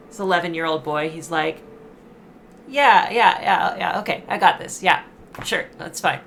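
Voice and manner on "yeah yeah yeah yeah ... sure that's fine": put-on a cocky kid jumping at the chance; eager kid. Eleven-year-old Remy eagerly agrees.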